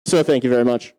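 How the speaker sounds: thanks blurted over vanished noise; shouting as noise stops. Real, not acted. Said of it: "Oh, that was loud".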